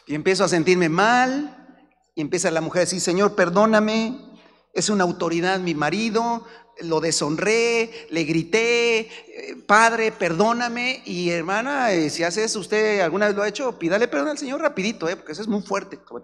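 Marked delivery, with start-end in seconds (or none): 3.0-11.0 slow mock prayer. Wife praying in repentance.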